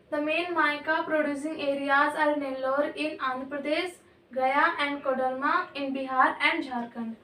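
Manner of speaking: reading the notes aloud, word by word, very slow; measured dictation pace; slow textbook reading. Acted. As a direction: dictate it slowly to the class. Reads textbook line slowly to class.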